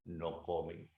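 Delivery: stern grandfather. Acted. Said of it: "el abuelo dijo".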